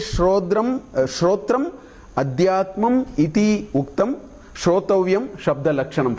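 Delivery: slow, measured verse recitation. Shown as a demonstration. Teacher saying the first verse slowly for the class, slow recitation. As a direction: recite it slowly, drawing out the Sanskrit words. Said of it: "first one only I will say slowly".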